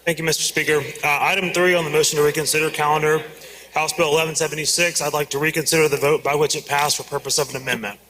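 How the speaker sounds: talking around a peppermint; words slurred by a mint; mouth full. Real, not acted. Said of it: "I got a peppermint in my mouth".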